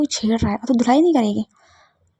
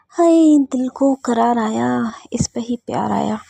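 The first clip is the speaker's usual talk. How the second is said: flirty catcall; slower than usual.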